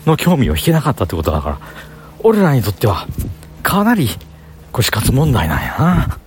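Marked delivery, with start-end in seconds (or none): 3.6-6.2 死活問題なんやな in Kansai intonation, lifting on な; Kansai dialect. Shown as a demonstration. Vlogger explaining poor sales in practised Kansai dialect. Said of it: "関西弁の喋り方今から作るわ".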